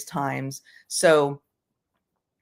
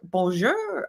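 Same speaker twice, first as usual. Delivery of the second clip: mock French; 4 semitones higher than usual. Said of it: "I'm terrible at accents too".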